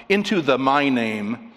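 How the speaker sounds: "into the my name" slowed and weighted; deliberate, emphatic reading of "into the my name"; emphatic quote. Retold or imitated. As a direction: spell out "into the my name" slowly, with emphasis. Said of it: "why is he saying this so emphatically".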